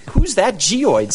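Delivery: slow, high, drawn-out announcer voice; old hollywood star. Pretend. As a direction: ham it up like an old movie announcer. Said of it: "I just love saying that".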